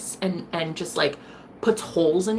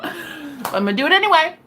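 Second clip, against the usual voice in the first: giggling high and louder; real laughter, higher and louder; laughing; 9 semitones higher, 6 dB louder than usual. Real, not acted. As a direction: laugh through the words.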